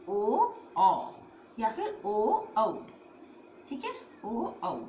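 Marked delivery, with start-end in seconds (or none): 0.1-1.1 ओ closed then औ open, said louder; louder side-by-side ओ and औ for the class; contrast demo. Shown as a demonstration. Teacher to students, contrasting ओ and औ loudly. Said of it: "इसे बोलते हैं औ".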